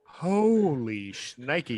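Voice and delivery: drawn out very slowly in disbelief; amazed exclamation. Real, not acted. Friend stunned by old ticket price, slow amazed exclamation. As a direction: stretch it out, stunned.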